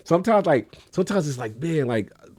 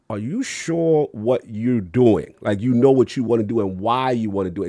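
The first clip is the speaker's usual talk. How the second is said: wise sage; 3 dB louder than usual. Retold or imitated. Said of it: "he's coming with this wise sage energy".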